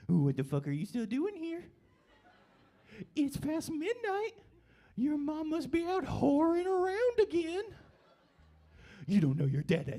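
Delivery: put-on high-pitched cooing to a baby; squeaky, singsong talking-to-baby voice. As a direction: coo insults sweetly in baby talk. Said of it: "in baby talk".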